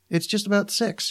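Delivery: lightly voiced girlfriend with a touch of worry; worried. A narrator's reading. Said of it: "she said, sounding worried".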